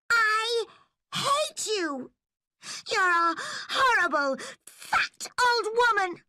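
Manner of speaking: high, loud, crying in rage; furious tearful shout. A narrator's reading. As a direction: scream it through tears. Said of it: "she shouted angrily".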